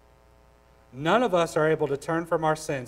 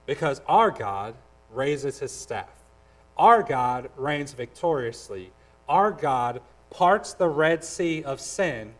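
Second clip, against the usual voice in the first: slow proclamation; slower than usual. Acted. Closing proclamation, slowed.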